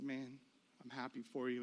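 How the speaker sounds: low, very soft, deflated; crushed congratulations. Retold or imitated. Childless husband congratulating his friend, low and downcast. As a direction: force out good wishes quietly.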